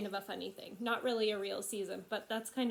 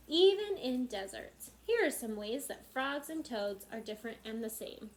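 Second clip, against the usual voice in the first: lively storybook narration; reading to children; 3 semitones higher than usual. A narrator's reading. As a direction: read brightly and clearly for little listeners. Reads book to children.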